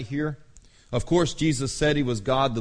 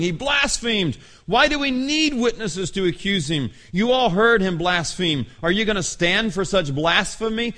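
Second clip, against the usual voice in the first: mock angry yell; 4 semitones higher than usual. High priest accusing Jesus before the council, mock outraged yelling. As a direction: act out a priest losing his temper. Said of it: "lost his temper, ripping his clothes, yelling".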